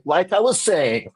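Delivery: high, slow breezy carry-on; mock oblivious. Heckler carrying on unbothered, high and slow. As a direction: pick up blithely in a high voice. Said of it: "And he's like".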